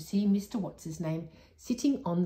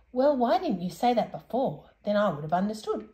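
a hint of a raised, puzzled old man; slightly higher, fussy and bewildered; mildly voiced confused old tinker; lightly voiced muddled old man; 3 semitones higher, 4 dB louder than usual. Saucepan man character voice.

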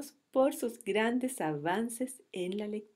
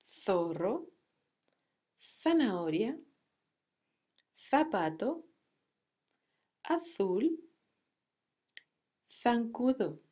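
reading aloud. Shown as a demonstration. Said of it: "los invito a leer".

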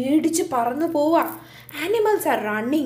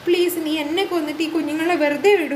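begging tree; 2 semitones higher than usual. Acted. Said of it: "Neem tree ഫയറിനോട് പറയും".

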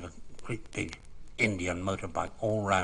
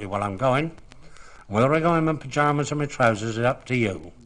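defiant retort; 4 semitones higher, 7 dB louder than usual. Retold or imitated. George defying nurses, retold.

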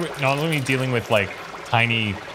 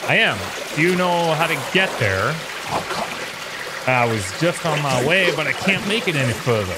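tiny critter; 4 semitones higher than usual. Acted. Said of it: "That's his bug voice".

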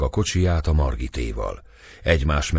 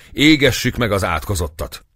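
crowd shout; 5 semitones higher, 4 dB louder than usual. A narrator's reading. Crowd calls for burning.

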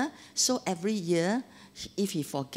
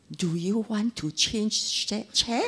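innocently gentle question; asked gently; slower than usual. Retold or imitated. Husband gently offers his wife another chair. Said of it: "and asked gently".

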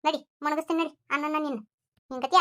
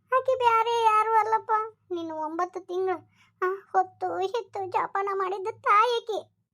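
high, emotional plea with drawn-out ending; tearful revelation; 5 semitones higher than usual. Acted. Woman tells Lakshmana this is his mother, tearfully. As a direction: plead it through welling tears.

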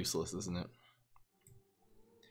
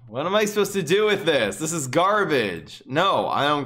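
frustrated rant; 3 semitones higher, 5 dB louder than usual. Real, not acted. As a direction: vent at the useless card. Angry at a bad card.

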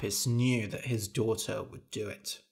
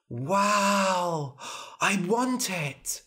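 high, drawn-out wow of longing; covetous little princess; 7 semitones higher, much slower than usual. Acted. Princess coveting the mirror, high-pitched greedy awe. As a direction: play a child who simply must have it.

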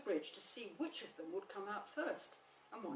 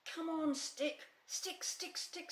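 calling the stick; 10 semitones higher, slower than usual. Acted. Rabbit urging his stick along, excited calling.

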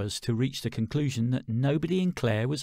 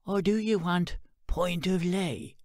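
slow; 5 semitones higher than usual. Acted. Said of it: "she asked slowly".

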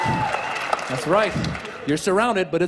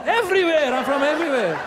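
evasive answer; 5 semitones higher than usual. Retold or imitated.

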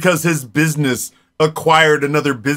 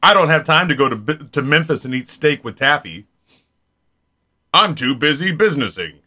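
Nate impression. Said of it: "That's what you sound like".

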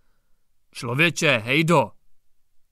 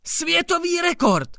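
high, solemn proclamation; solemn, awed repetition; solemnly; 12 semitones higher than usual. A narrator's reading. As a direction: announce it like a ceremony. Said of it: "opakoval četník Hejda slavnostně".

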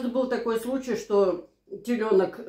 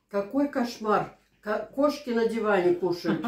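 mock outrage. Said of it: "в комментарии написали".

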